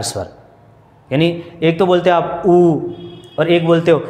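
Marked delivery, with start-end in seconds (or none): 2.5-2.8 ऊ held with lips rounded. Shown as a demonstration. Teacher contrasting lip shapes for students, rounded ऊ. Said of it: "ऊ बोलोगे तो आकृति गोल हो रही है".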